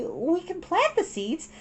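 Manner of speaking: high, slow "plant the seeds"; coaxing girl voice. A narrator's reading. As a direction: coax a little sister slowly. Satsuki persuading Mei.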